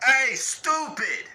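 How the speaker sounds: slow, high shout of Hey, stupid; yelling at a drunk. Retold or imitated. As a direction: bellow it slowly at a drunk. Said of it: "Drunk people need you to be like".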